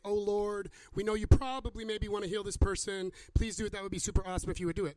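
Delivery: mock tentative prayer, rushing at the end; half-hearted mock pleading to the Lord; wishy-washy prayer. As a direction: parody a hesitant, hedging prayer for healing. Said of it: "we don't read prayers for healing that say".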